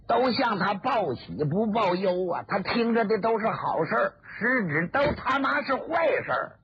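a scornful, rising tirade; a hint of bitter mockery of the court; Ouyang Zhaoxiong. Ouyang scorns the emperor's ignorance.

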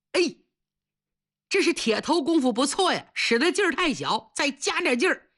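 lightly taunting cellmate; mock encouragement. Cellmates watching a man bang his head, jeering. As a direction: egg him on with false praise.

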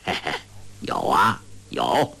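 low, forced dry chuckle; dry laugh. Acted. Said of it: "欧阳锋干笑道". (低沉地干笑着说)

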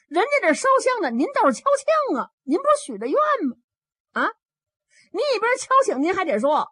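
put-on high, fast child's scold; scolding child novice. Novice boy scolds Lan Yong for not striking the chime, high and fast. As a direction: squeak it out as an indignant little novice.

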